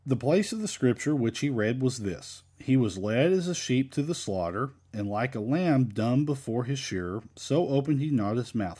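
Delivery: measured Bible reading, lilting phrases; scripture reading. Acted. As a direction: read the verse aloud to a congregation. Reads scripture aloud.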